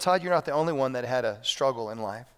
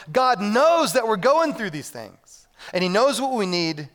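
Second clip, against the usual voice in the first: raised, insistent preacher's voice; sermon delivery, slowing on key phrases; emphatic preaching; 8 semitones higher, 5 dB louder than usual. Real, not acted. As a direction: assure the congregation with force. Preaches at full force.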